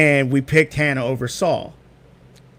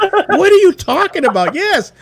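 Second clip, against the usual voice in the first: high mock voice; 7 dB louder than usual. Retold texting exchange with Kate.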